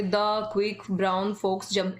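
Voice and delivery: The quick brown fox jump run together as whole words; reading whole words. Shown as a demonstration. Teacher showing students the wrong way, reading whole words. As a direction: read it word by word, the wrong way. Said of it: "ऐसे नहीं पढ़ना".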